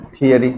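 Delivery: थियरी repeated with an aspirated th; correct pronunciation. Shown as a demonstration. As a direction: drill थियरी for the class. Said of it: "इसको क्या बोला जाएगा दोस्तों".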